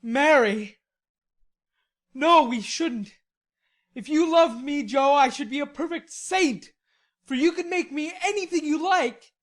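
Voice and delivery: loud, high and rapturous. A narrator's reading. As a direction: dream aloud in rapture. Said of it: "uttered it with a rapturous expression".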